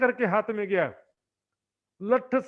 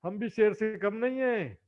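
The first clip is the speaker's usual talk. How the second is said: jackal's bluster; slower than usual. Retold or imitated. Jackal bragging to a small creature, mock swagger. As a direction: puff up like a jackal playing lion. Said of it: "जाकर के शेर बन जाता है".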